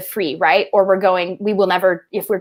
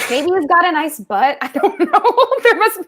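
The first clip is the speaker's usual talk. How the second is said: laughing; 7 semitones higher than usual. Real, not acted. Joking about the villain's looks.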